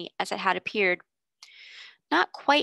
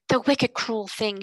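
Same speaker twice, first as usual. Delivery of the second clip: bursting out; 3 dB louder, slower than usual. Acted. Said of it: "she burst forward".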